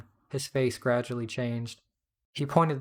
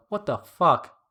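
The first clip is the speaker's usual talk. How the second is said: loud, drawn-out, higher-pitched yell; angry yell; 5 semitones higher, 7 dB louder, slower than usual. A narrator's reading. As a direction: yell it slowly in outraged disbelief. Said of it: "Southern accent yelled".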